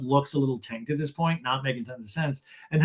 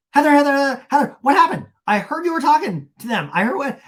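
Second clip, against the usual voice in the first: high, loud mock urgency; excitable hammed-up pestering; Vicky; 11 semitones higher, 8 dB louder than usual. Vicky asking Heather what happened, mock urgency. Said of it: "And Vicky goes".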